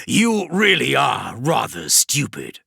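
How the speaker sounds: slow, disdainful drawl; contemptuous demon. Acted. Demon Vashtor sneering at Kravrek, slow scorn. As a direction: talk down to him.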